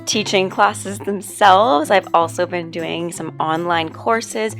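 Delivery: hoarse, strained voiceover voice; losing her voice, rough and worn; voice giving out. Real, not acted. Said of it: "which is the reason that I sound like this".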